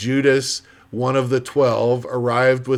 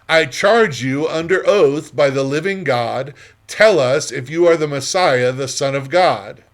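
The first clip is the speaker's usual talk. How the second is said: solemn demand; 3 semitones higher, 5 dB louder than usual. Acted. High priest demands answer under oath.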